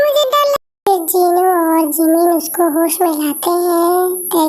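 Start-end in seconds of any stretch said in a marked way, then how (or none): 0.1-1.1 high, slow, breaking off; trailing off scared; a touch of fear. Acted. Daughter scared by her staring mother, high.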